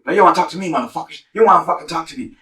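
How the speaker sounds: mock yell back at the men; angry retort. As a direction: throw their words back at them angrily.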